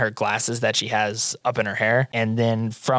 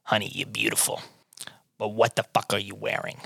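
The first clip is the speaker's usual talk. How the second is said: put-on hushed old shopkeeper; 2 semitones lower, 6 dB quieter than usual. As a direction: lean in and purr it like a fussing old designer. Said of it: "She goes".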